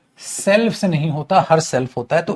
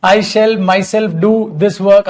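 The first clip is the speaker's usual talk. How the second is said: mocking wrong version; 3 semitones higher, 3 dB louder, much slower than usual. Shown as a demonstration. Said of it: "अबे पागल हो गए हो क्या".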